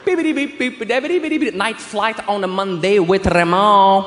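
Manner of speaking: low, drawn-out put-on English voice; mock jazz title announcement. Naming absurd instrumental jazz demos, mock-smooth low voice. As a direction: croon the title slowly, deep in register.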